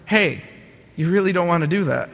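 small voice turning mildly firm; a little firmer. Retold or imitated. Little inner voice warns him near the spiral's end, a little firmer. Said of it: "got a little firmer and said".

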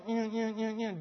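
short repeated engine hums; imitated engine revving. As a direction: hum like an engine being revved.

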